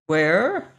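"Where" with a sharp rise at the end; confused repeat of "Where", lifting upward; echoed question. A narrator's reading. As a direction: echo "Where" as a puzzled rising question. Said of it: "Lois echoed".

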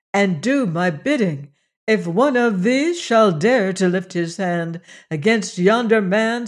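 a lightly voiced goddess warning her priests; stern threat.

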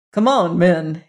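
mild call to his men. Acted. Tull calling to his men, mild call. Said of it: "he called".

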